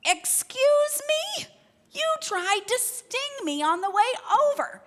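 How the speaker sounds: high, loud, drawn-out Excuse me?; indignant frog. Acted. Frog outraged at scorpion.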